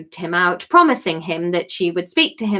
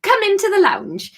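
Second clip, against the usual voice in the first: a little nasally; 10 semitones higher than usual. Acted. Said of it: "a little nasally".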